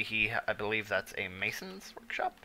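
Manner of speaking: whispered aside; under-the-breath whisper. Real, not acted. Muttered aside while playing.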